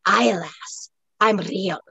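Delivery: a light Scots brogue with rolled R's; rich brogue. Acted. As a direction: reassure the lass in a Highland brogue. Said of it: "deep, rich brogue trilling with R's".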